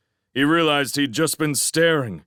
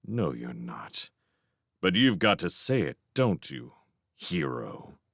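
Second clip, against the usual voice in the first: bitter sneer; 7 semitones lower, 6 dB quieter than usual. A narrator's reading. Bitter man mocking his would-be rescuer. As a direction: sneer it through a tight grin. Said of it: "hard and bitter grin".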